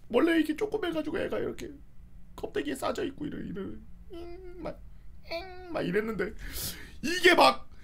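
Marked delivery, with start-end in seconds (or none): 4.1-6.3 soft whimpering sound. Retold or imitated. Boy describing the bandaged thing, soft whimper. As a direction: whimper like a hurt little thing.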